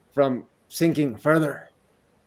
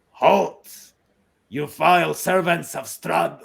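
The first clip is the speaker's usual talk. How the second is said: magically amplified voice; 4 dB louder than usual. Acted. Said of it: "you hear a booming voice".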